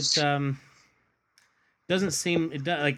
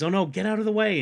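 alarmed shout; 8 semitones higher, 5 dB louder, faster than usual. Retold or imitated. Superman cries out in alarm.

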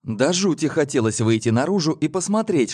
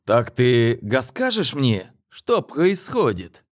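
cheeky; slower than usual. Acted. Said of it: "нагловато спросил".

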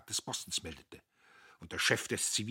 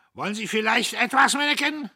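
loud, higher jeer; mocking shout; 13 dB louder than usual. Notgroschen taunts the policeman: loud mocking shout. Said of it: "rief Notgroschen".

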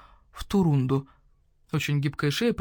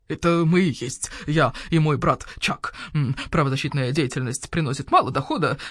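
owl shopkeeper voice; 2 semitones lower than usual. Acted. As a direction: voice the grumpy owl merchant. Owl explains, feral wasteland raider hint.

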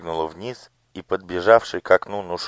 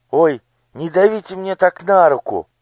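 high, whining plea; a frightened child begging him to let go; whimpering; 12 semitones higher, 8 dB louder than usual. Acted. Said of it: "захныкала Ело". (хныча)

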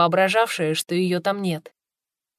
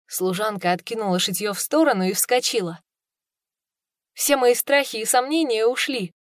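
ordinary delivery, nothing marked

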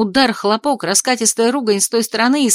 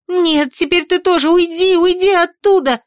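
much higher, louder panicked yell; screaming; 9 semitones higher, 4 dB louder than usual. A narrator's reading. Heroine yells at Ardan as he starts glowing, screaming. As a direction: scream at him to get away. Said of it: "заорала я".

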